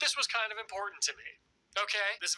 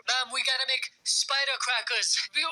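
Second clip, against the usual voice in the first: put-on begging kid voice; 6 semitones higher, 5 dB louder than usual. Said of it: "my siblings and I would beg our parents".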